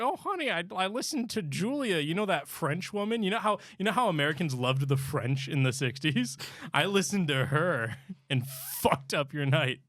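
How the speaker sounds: a sheepish wife confessing to her husband; lightly voiced fifties housewife.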